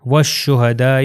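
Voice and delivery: والشہداء as "wash-shuhadaa-i"; والشہداء, lam silent and long final "aa"; waw joined to sheen. Shown as a demonstration. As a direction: recite والشہداء with a doubled sh. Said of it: "وہ شین سے مل جائے گا".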